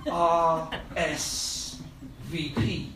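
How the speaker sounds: letters R S V P in a mock thick Eastern European accent. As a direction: spell out R S V P like an Eastern European immigrant. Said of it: "in his thick Eastern European accent".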